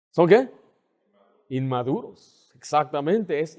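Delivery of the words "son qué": louder ask with rising end; loud rising question to the church; loud prompting question. Shown as a demonstration. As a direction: call it out to the congregation.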